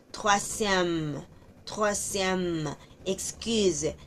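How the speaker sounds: "troisième" with the vowels kept apart; careful French demo. Shown as a demonstration. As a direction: separate each vowel of "troisième". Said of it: "separación de las vocales". (vocales separadas en "troisième")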